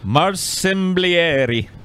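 Marsimblieri drawn out very slowly; careful pronunciation. Shown as a demonstration. Streamer slowly tries to pronounce Marsimblieri. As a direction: sound out Marsimblieri syllable by syllable.

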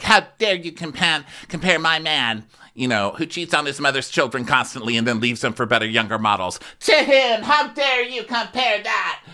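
high, hammed-up outrage peaking into a shriek; indignant, rising to a squeal; mock outraged Lala. Voicing Lala's outraged rant.

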